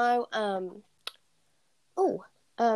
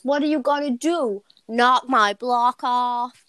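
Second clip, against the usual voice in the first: quoting a film line; 2 semitones higher, 4 dB louder, slower than usual. Retold or imitated. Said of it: "A person in the film says".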